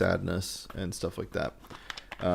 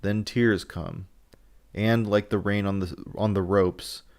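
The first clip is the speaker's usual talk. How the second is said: dramatic reading. Acted. Reads Van Helsing monologue aloud.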